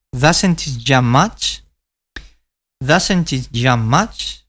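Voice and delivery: slow model, "doesn't" stressed and "it" weak; slow demonstration. Shown as a demonstration. Teacher repeats the sentence slowly for practice. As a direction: draw each word out slowly for learners. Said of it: "Observa la pronunciación de esto".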